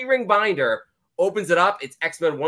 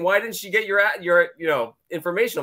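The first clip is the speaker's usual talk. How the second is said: mild mock yell; 5 semitones higher than usual. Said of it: "I was just yelling".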